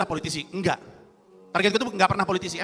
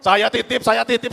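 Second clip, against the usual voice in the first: mock speech echo; 3 semitones higher, 5 dB louder, slower than usual. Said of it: "Lihat videonya nggak?".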